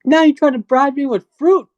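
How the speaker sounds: high indignant guard, voice pushed well up; offended guard scoffing at the bribe; security guard voice. Acted. Guard scoffs at player offering dried apricot, high and indignant.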